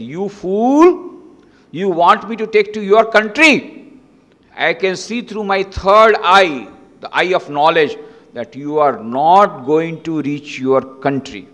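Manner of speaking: a calm saint predicting the emperor's doom; stern rebuke. Acted. Saint prophesies to Alexander.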